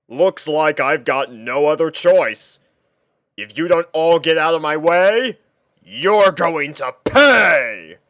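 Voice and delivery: slow, loud heroic warning building up; heroic dragon threat. Acted. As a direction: stand your ground and threaten them. Hero dragon threatens ninjas.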